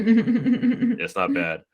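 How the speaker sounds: sing-song high drawl on "It's not bad"; drawn-out mock understatement. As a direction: stretch "It's not bad" way up and slow, playfully. Repeats own line, drawn out.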